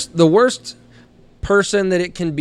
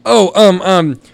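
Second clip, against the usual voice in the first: halting, building to a high shout; acted flustered pilot; 7 semitones higher, 8 dB louder, much slower than usual. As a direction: stumble for words, then yell the foreign one. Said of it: "So he goes".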